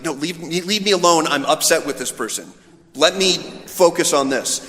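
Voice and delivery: mock-irritated leave me alone; annoyed brush-off. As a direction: wave off the intruder, fed up. Brushing off an interrupter.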